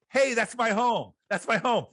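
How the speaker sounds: high, eager pointing-out voice; a thrilled flyer spotting his own house from the window; excited plane passenger. Retold or imitated. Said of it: "What do you say to the stranger".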